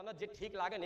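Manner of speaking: તને જે ઠીક લાગે ને murmured very softly; hushed surrender. Retold or imitated. Devotee murmuring to the goddess, very soft. Devotee quote, first take.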